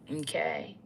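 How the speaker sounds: breathy whisper of a single word; whispered aside. Real, not acted. A whispered afterthought to her viewers. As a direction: drop to a whisper, falling off.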